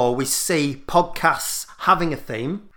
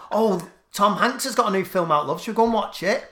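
wife's voice; 5 semitones higher than usual. Retold or imitated. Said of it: "his wife's gone".

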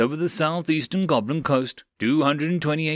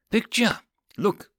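surprised cry; 8 semitones higher than usual. Acted. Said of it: "The guy cried out in surprise".

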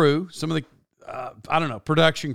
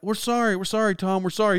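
softer, raised-pitch meek apology; imitated nice apology; 4 semitones higher, 3 dB quieter, faster than usual. Crew apologizing to their angry star, mock nice. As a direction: mimic a crew apologizing nicely. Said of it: "like, being nice".

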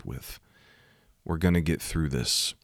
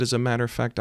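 high-pitched mock-weepy voice; imitated tearful apology; 7 semitones higher, faster than usual. Woman apologizing after rear-ending him, imitated tearful voice. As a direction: imitate a distraught driver wailing sorry, much higher. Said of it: "she's just sobbing. She's just crying".

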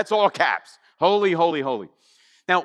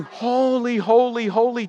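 raised, ringing angelic cry; acted angels' proclamation; crying out in praise; 5 semitones higher than usual. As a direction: call it out higher, word by word. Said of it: "are crying".

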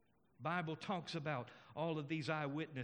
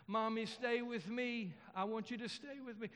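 lightly voiced child's plea, pitched up; pleading little boy; 6 semitones higher than usual. Little boy begs mother to stay at night, lightly voiced pleading.

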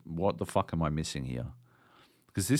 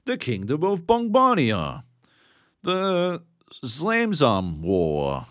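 higher, louder grand announcer, stretched out at the end; pompous fantasy codex voice; mock lore narration; 8 semitones higher, 6 dB louder, slower than usual. Mocking the game's lore menu, grand announcer read. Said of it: "It'll be like".

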